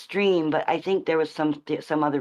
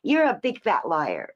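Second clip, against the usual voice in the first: slow, lightly mimicked childish taunt; a hint of kid-style name-calling; kid's taunt; slower than usual. Speaker showing how a kid would say it, light mock taunt. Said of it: "a kid would say".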